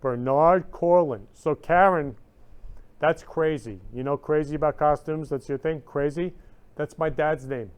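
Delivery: shocked and thrilled at the coincidence; stunned excitement. Real, not acted. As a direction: it just hit her, say it loud and amazed. Realizes the name matches her dad.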